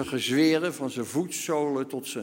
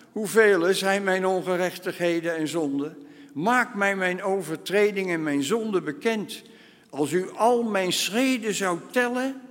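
higher, louder pleading defence; passionate plea; 5 semitones higher, 3 dB louder than usual. Acted. Job protesting his innocence to God, fervent.

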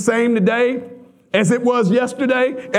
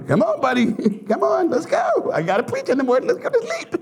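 coaxing through laughter; 4 semitones higher, faster than usual. Retold or imitated. Coaxing toddler to bed.

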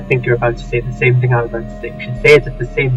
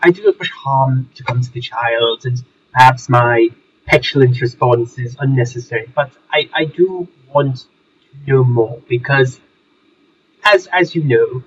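posh English gentleman voice; home counties accent. Acted. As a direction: speak as a refined old Englishman. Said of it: "this is not a Surrey accent".

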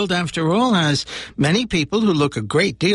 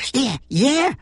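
monster voice; 9 semitones higher than usual. Acted. Monster agreeing.

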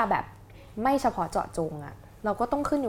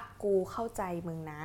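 gentle empathy; 8 dB quieter than usual. Shown as a demonstration. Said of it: "คำว่า".

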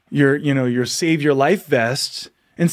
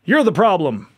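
mock outraged shouting, higher and louder; hammed-up angry mob; 8 semitones higher, 4 dB louder than usual. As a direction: play the partygoers yelling to throw him out, half-laughing. Mocking the crowd's hostile reaction.

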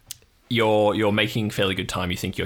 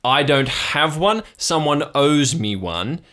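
lightly voiced uncle; 4 semitones higher, 4 dB louder than usual. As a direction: own up bit by bit, drawing it out. Plays Uncle Marv on the phone.

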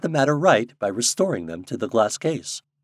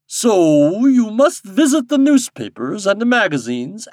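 commanding king; 8 semitones higher, 8 dB louder than usual. A narrator's reading. King instructing Popopo in his duty, imperiously. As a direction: declaim the orders grandly, drawing words out.

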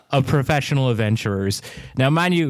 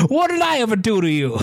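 mock deep Philly accent; hammed-up Philly tough guy; 9 semitones higher, faster than usual. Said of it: "deep Philly accent".

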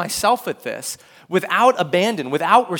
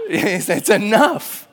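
slow emphatic; 4 dB louder, much slower than usual. Retold or imitated. Peter settling it.

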